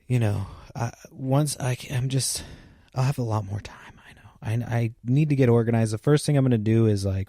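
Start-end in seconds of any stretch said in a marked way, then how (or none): 2.9-4.6 half-whispered aside to herself; whispering. Real, not acted. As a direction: drop to a breathy whisper. Hushed aside to self.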